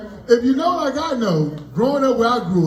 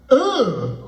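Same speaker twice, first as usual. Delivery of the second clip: disgusted ugh. Retold or imitated. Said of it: "it started out like this".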